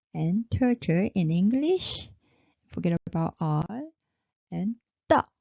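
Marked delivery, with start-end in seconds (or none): 5.1-5.3 short "ta" with a tense t; high-pitched. Shown as a demonstration. Teacher showing the high-pitched consonant, tense "ta". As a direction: say "ta" tight, high and brief. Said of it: "high-pitched".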